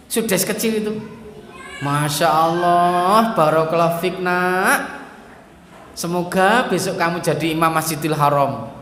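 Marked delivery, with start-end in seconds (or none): 1.8-8.7 calm blessing. Retold or imitated. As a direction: bless the child instead of scolding. Mother blessing child calmly.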